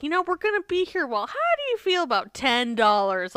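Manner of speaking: fast, high mock clerk voice; lightly voiced hotel clerk. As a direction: rattle it off like a pushy clerk. Imagined hotel worker haggling.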